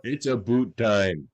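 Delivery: stretched-out mock Canadian accent; hammed-up Canadian accent with slow vowels. Podcaster teasing co-host about Canadian slang, mock Canadian accent. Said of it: "accent they use to make fun of Canadians".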